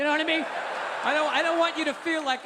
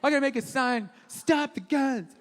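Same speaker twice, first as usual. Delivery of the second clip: mock liberal protester. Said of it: "But then liberals like".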